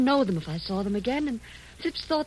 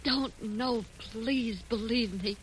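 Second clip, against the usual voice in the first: pleading; much slower than usual. Acted. Begging after threats.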